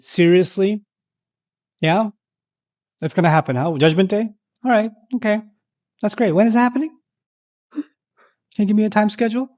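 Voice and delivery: mocking, scornful questions; sneering sarcastic disbelief; sarcastic mockery. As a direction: belittle them with fake interest. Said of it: "Sarcasm, putting someone down".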